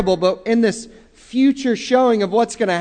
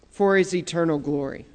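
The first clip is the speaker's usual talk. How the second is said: softer, hushed repeat of "For His eternal glory"; soft echo; 5 semitones lower, 7 dB quieter than usual. Shown as a demonstration. Preacher echoing his own line to the congregation, softly. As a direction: let the echo sink to a near hush.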